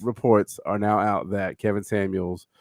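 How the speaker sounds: slow, measured bulletin read; news-report delivery. Shown as a demonstration. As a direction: deliver it as careful breaking news. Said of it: "I know the way you can say it".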